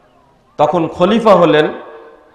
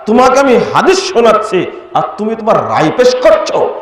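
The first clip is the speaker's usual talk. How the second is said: retold reprimand, pitched up; scolding rebuke; 5 semitones higher than usual. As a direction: challenge him with an indignant rising question. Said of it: "ধমক দিয়ে বলছেন". (ধমকের সুরে তিরস্কার)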